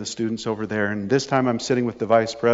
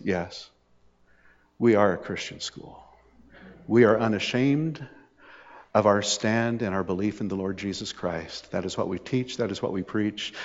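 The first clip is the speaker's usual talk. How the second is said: soft, resolute recital of policy; quietly firm; 3 semitones lower, 6 dB quieter than usual. Retold or imitated. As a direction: imitate an unbending official, softly. Retold vice president stating school policy.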